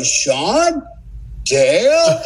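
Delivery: overjoyed disbelief at finding his buddy; joyful recognition. Retold or imitated. Finds his teammate in the dark.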